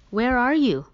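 high, loud call into the woods. Acted. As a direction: shout to find him. Calling for lost son in woods.

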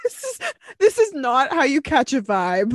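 high, squeaky-with-laughter protest; laughing hard. Real, not acted. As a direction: talk through helpless laughter. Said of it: "I've never laughed so hard".

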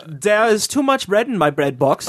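gentle, calm German accent; soft German accent. Shown as a demonstration. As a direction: speak it softly and kindly. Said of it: "that was nice".

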